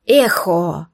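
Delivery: mild shout of a spell word. A narrator's reading. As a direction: cry out the spell. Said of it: "я со всей дури закричала".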